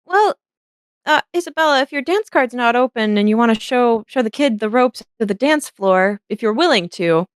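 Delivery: starts high, then settles down; a lightly voiced lady, opening high; Charlotte's voice. Painter asking Isabella to dance with the kid, light high voice. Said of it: "and she goes".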